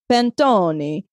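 "panettone" with an Italian lilt; mock Italian accent on "panettone"; put-on Italian accent. Shown as a demonstration. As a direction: say "panettone" as pan-TOH-nee, playing up the Italian accent. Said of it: "say it like that with the accent".

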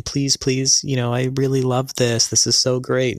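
lightly mocking a pouty plea; a hint of a whiny wheedle. Husband mimicking his wife begging in the store, mild pouty mock. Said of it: "start doing the pouty voice".

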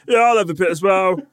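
eager. Retold or imitated. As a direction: jump in eagerly for a share of the food. Mimics himself grabbing food.

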